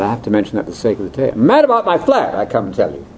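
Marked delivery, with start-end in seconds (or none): 1.3-3.0 a hint of a Brit proudly announcing his "flat"; lightly voiced British speaker. Speaker quoting a Brit about his flat, lightly British. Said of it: "the classic one is".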